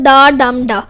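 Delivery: डम stressed between two unstressed डा; middle syllable stressed. Shown as a demonstration. Teacher demonstrating amphibrach, stress on middle डम. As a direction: put the weight on the middle डम. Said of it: "दूसरा stress".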